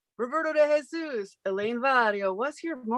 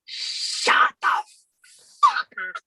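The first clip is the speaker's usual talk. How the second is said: yelled outburst; 3 dB louder, much slower than usual. Real, not acted. Breaks whisper to yell.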